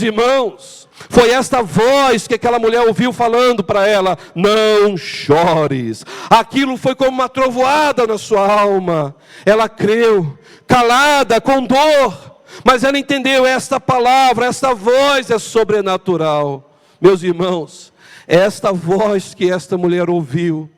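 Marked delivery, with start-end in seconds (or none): 4.3-6.1 slow tender voice. Acted. Voices God's words slowly. 6.3-16.8 cathedral echo. Acted. Preaching at full force.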